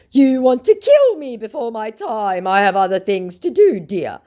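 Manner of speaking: high, loud put-on scammer; put-on high scammer complaint; mock scammer. Scammer's reply voiced.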